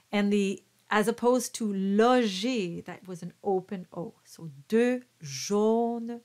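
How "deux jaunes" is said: slow "jaunes" with a closed O. Shown as a demonstration. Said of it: "the jaune is a closed O".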